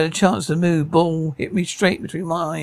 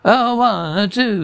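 mock shout; 5 semitones higher, slower than usual. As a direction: count out in a raised-pitch mock yell. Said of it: "He shouts, barely intelligible".

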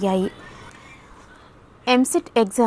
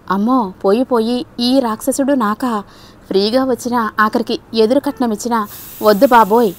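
mock fear. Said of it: "భయం నటించింది స్వప్న".

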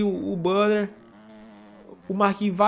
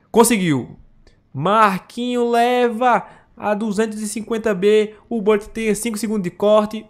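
loud result announcement; excited; 3 semitones higher, 6 dB louder than usual. Real, not acted. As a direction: announce the winner, fired up.

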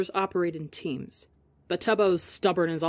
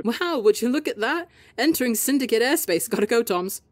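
yelling; 5 semitones higher, 4 dB louder than usual. Acted. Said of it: "Tubbo yells to cut off".

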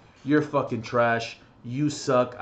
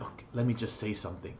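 timid request; 5 semitones lower, 8 dB quieter than usual. Retold or imitated. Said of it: "I was like".

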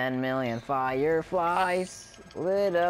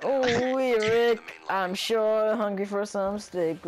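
Mr. Poopy Butthole; 3 semitones higher than usual. Retold or imitated. Doing Mr. Poopy Butthole for his gaming buddy, ooh wee voice. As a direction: sing out ooh wee like the cartoon. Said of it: "I was thinking Mr. Poopy Butthole".

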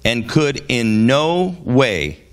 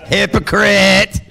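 higher, slow, emphatic "Hypocrite"; straight-out rebuke; 7 semitones higher, 4 dB louder, slower than usual. Acted. Jesus calling out the ruler before the congregation, slow and emphatic. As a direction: call him out, slowly and firmly. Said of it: "called it straight out like it is".

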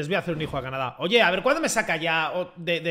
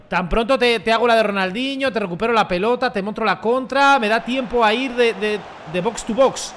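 raised, louder run-through of feats; excited boasting; 4 semitones higher, 4 dB louder than usual. Real, not acted. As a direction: brag excitedly, item by item. Boasts about own all-round play.

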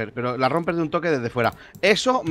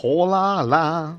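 mock French greeting; 3 semitones higher, much slower than usual. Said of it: "voz así como de Rajoy".

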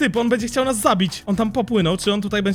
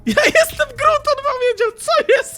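very high, loud squeal of astonishment; loud, high-pitched shocked exclamation; amazed outburst; 5 dB louder than usual. Real, not acted. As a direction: squeal it in total disbelief. Amazed another player answered as Groot.

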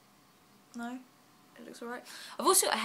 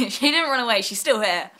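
louder, laughing through "didn't"; laughing correction; 5 semitones higher, 12 dB louder than usual. Real, not acted. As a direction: laugh it off as you correct yourself. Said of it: "Well, she didn't run away".

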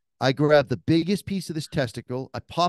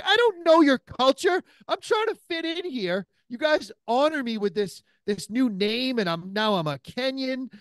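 pitched way up, a pleading, hammed-up rant; high exasperated plea; 9 semitones higher than usual. Retelling a plea to his Kenyan buddy, a high exasperated rant. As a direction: beg him to understand, voice climbing high.

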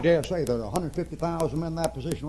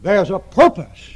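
slow loud declaration; 2 semitones higher, 11 dB louder, slower than usual. Real, not acted.

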